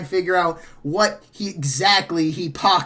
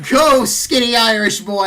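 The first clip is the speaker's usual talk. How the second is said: loud happy cheer; 4 semitones higher, 7 dB louder than usual. Real, not acted. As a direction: shout it for your teammate. Cheering a great roll.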